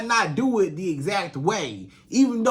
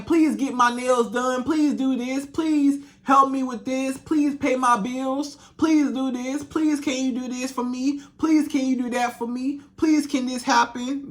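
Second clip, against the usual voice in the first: begging woman; 3 semitones higher than usual. Retold or imitated. Imitating a woman begging a man for money, mock pleading. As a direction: plead like a needy woman with her hand out. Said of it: "Begging a man".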